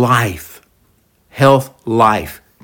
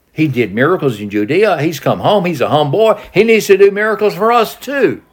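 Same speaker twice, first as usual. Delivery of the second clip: higher, rising demand of the hometown crowd; mock Galilean crowd; 6 semitones higher than usual. Preacher voicing Galileans demanding miracles, mock indignant. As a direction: voice the locals wanting their share.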